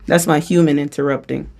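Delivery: speaking short of breath; winded, needing water. Real, not acted. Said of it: "I'm out of breath".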